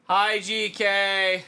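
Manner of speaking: high, slow, sing-song greeting; cute anime streamer. Acted. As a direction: coo hello like a cute anime girl. Streamer greets chatters by name.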